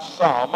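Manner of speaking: some leaned on and held; stress on some. Shown as a demonstration. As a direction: give the word some a marked push. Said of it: "and I emphasize that word".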